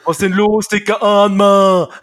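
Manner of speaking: lauter, gedehnter Ausruf, etwas tiefer; Intro-Ruf. Acted. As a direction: nochmal als Showmaster rufen. Zweiter Anlauf des Intro-Rufs. (gedehnter Begrüssungsruf)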